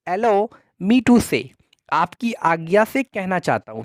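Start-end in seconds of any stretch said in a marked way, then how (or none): 0.1-1.4 "Allow me to say" drawn out word by word; slow model phrase. Shown as a demonstration. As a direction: dictate "Allow me to say" slowly. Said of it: "आप कहेंगे कि". ("Allow me to say" धीरे-धीरे)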